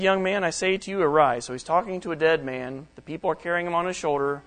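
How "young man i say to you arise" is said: higher and louder, arise rings out; proclaiming command. Acted. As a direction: call the dead man up with authority. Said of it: "Jesus said".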